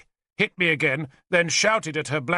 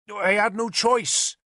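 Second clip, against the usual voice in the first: protesting; 8 semitones higher, slower than usual. A narrator's reading. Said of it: "he protested".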